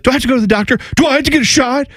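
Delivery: put-on high-pitched little kid asking anxiously; worried child. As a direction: ask like a nervous six-year-old. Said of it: "She's like".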